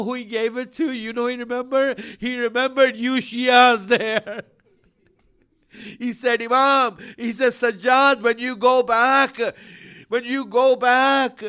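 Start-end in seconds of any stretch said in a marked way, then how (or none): 2.2-11.4 louder, tearful appeal; rising lament. Acted. Preacher addressing Shia mourners, tearful and loud. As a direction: build the grief toward the climax.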